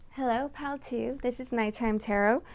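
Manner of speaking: close-miked, intimate sound; right up on the microphone; too close to mic. Real, not acted. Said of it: "if I sound a little too close".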